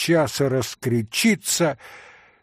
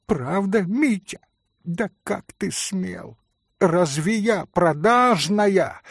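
hurt anger; 6 semitones higher than usual. Acted. Грушенька оскорблена.

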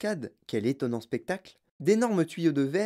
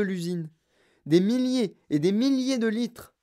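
lightly voiced proud factory owner, often higher; excitable showman Wonka; 5 semitones higher than usual. Wonka boasts of his chocolate river to visitors, excited. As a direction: show off with boastful enthusiasm.

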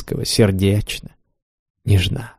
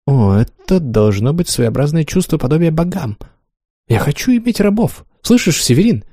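rising to a soaring, exalted cry of power; a goddess-like mistress growing rapturous; Wanda voiced; 4 semitones higher than usual. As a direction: climb higher and higher as she dreams of slaves. Wanda's lines in reading.

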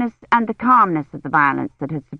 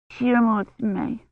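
sullen; 3 semitones higher, 4 dB quieter than usual. A narrator's reading. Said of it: "she said sullenly".

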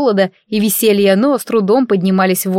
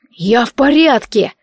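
slow, raised call from below; 3 semitones higher than usual. Acted. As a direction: shout up that you're fine. Calling up from a crevice.

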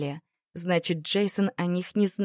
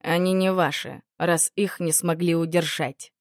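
calm reasoning. Acted. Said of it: "резонно заметил Джейсон".

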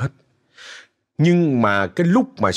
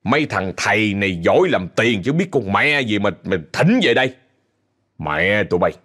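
retold cursing rant. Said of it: "Ông chửi".

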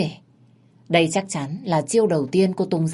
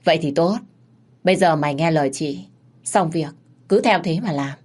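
lightly voiced big sister, calm and in charge; Ngân, big sister. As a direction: reassure the boy like a boss sister. Ngân gives orders.

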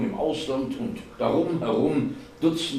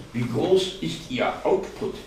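raised, official-sounding quotation; quoting aloud; 7 semitones higher than usual. A narrator's reading. Martin quotes the ministry's question, reading aloud. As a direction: quote the questionnaire at a higher pitch. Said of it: "zitierte Martin".

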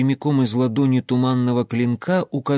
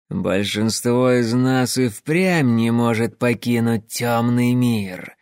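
slow, hissed words; hissing; slower than usual. Acted. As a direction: hiss it out, slow and menacing. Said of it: "прошипел он".

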